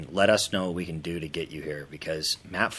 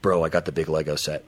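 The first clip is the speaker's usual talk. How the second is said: put-on excited kid; 7 dB louder than usual. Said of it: "calling your friend in elementary school".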